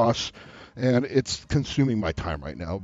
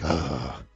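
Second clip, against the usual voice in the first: low mock groan; low, drawn-out groan in imitation; 10 semitones lower, 4 dB quieter than usual. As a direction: let out a long, low imitated "ugh". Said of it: "Okay, now it's like".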